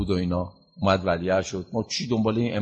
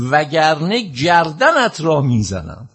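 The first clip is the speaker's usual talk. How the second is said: loud, high, slow threat; retold death threat; 6 semitones higher, 5 dB louder, slower than usual. Preacher voicing Ma'mun threatening Imam Reza, slow loud menace. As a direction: spit out the threat like a furious ruler. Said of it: "فریاد زد گفت".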